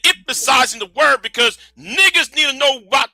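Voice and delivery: heated shout at his opponent; yelling. Real, not acted. Arguing with the debater, shouting. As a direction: shout it, angry and insistent. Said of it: "doing too much yelling and screaming".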